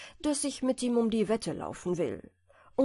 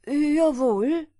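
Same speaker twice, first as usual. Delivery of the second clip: louder, higher clipped yes; confident and ready; hedgehog agreeing; 5 semitones higher, 7 dB louder than usual. A narrator's reading. Hedgehog answers the hare, louder and confident. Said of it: "erwiderte der Igel".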